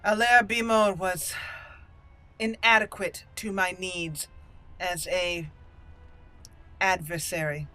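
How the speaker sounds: lightly voiced, formal noblewoman; measured verdict with deliberate pauses; haughty dwarf noble. Noblewoman dismisses her beaten opponent to the Proving Master, lightly haughty.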